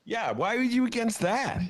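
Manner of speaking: mock squeaky challenge; high squeaky voice. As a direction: jump way up high for the question.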